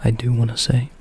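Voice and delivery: quiet, gentle spoken voice; soft-spoken voice. Shown as a demonstration. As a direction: say it softly aloud. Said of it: "but on my soft-spoken voice".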